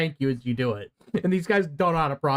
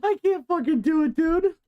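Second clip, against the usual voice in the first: laughing helplessly; 12 semitones higher than usual. Real, not acted.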